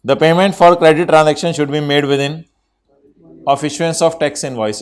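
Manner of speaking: slow, word-by-word dictation for note-taking. Acted. Teacher dictating a rule to the class, very slowly. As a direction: spell it out slowly so students can write.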